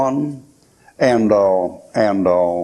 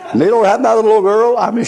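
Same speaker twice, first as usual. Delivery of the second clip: lively; 9 semitones higher, 4 dB louder than usual. Real, not acted. Excited after laughing.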